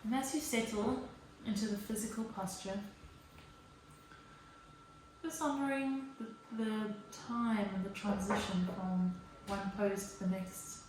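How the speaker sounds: guided yoga meditation. Real, not acted. Yoga teacher settles the class into child's pose, calm guided delivery. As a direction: gently talk them down into stillness, leaving space.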